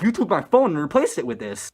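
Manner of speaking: lightly hammed-up accusing; retold accusation. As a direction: imitate a friend pointing blame. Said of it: "he starts accusing me".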